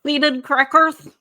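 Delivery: slow, scoffing repeat; drawn-out disdainful echo; mocking. Real, not acted. Mocking the seeded cracker suggestion.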